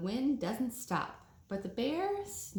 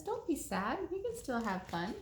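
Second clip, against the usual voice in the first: soft mouse voice; 5 semitones higher than usual. Acted. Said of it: "The mouse says".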